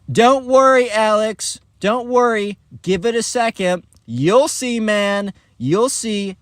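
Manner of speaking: high-pitched, lightly mimicked yell across the room; calling over. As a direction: call out breezy reassurance to a friend. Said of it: "yells over".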